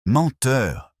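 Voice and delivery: high, loud cry of accusation; wounded roar. A narrator's reading. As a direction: roar it like a wounded animal, kept brief. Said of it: "rugit comme un animal blessé".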